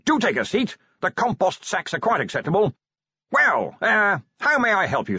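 high, hearty host's voice; jovial wizard Ridcully. A narrator's reading. Wizard offering the commander a seat, high and jovial. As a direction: welcome a guest with booming good cheer. Ridcully hosts Vimes in shed.

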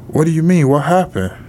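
high-pitched, alarmed questions; retold mother demanding to understand bad news; alarmed questioning. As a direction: pitch jumps up in disbelief.

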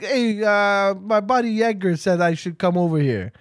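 casual Brooklyn-Italian party crasher; Brooklyn accent. Acted. Crasher explaining who invited him, Brooklyn accent. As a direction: play a lightly voiced Brooklyn guy. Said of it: "Why are they from Brooklyn?".

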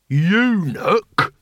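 outraged barbarian's exclamation; indignant roar. A narrator's reading. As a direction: roar it in outrage, without full volume. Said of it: "roared Truckle".

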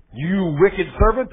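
slow, loud roaring king; roaring tyrant king. Acted. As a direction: bellow it slowly like an angry king. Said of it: "the king roared".

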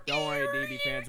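mock reassurance, very high; squeaky high voice. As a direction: squeal it in falsetto. Joking high reassurance to fans.

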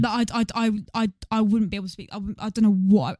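real flustered stammer; stuttery. Real, not acted. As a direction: trip and restart on the first words. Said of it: "I'm even getting stuttery right now".

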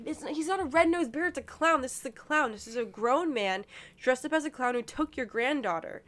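insistent correction, starting high and loud, easing off; retold arguing. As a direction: argue the point as if reliving it. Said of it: "I'm arguing with her".

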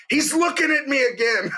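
put-on high tattling kid voice; mock whine of a little sister; whiny kid sister. Little sister tattling to mom, high mock whine. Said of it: "she would yell to my mom".

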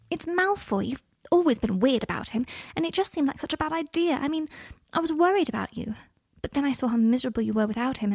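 a hint of Hermione apologising anxiously; lightly voiced Hermione.

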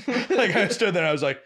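high, laughing through words; cracking up mid-sentence. Real, not acted. Laughing while telling story.

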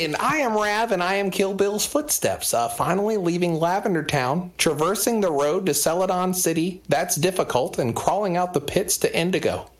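high-pitched, goofy read-aloud voice; Nardwar. Pretend. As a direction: declaim the tweet in a silly high voice. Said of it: "you just sound like Nardwar".

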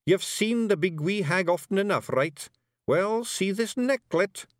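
high, loud wee Scottish fairy; rowdy little Scots pixie voice; broad Scottish accent. Acted. Rob explains.

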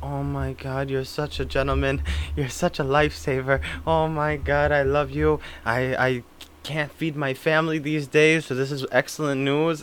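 soft, understated fake gushing; mock gratitude. Prankster thanking a Medicare scam caller, mock gratitude. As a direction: thank them profusely in a soft put-on voice.

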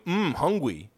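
mock dubbed-video voice; DeSantis. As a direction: imitate a bad lip-reading voiceover. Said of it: "that video of him going".

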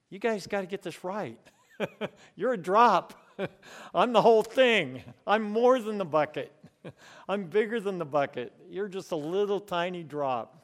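amused, scoffing God, laughing at tiny nations. Acted. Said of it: "God laughs and scoffs and says".

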